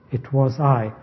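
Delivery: weight landing on the final "I"; stress on I. Acted. The Lord who made the earth, emphatic "I". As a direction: make "I" the emphatic word. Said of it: "is emphatic. It's an emphatic pronoun".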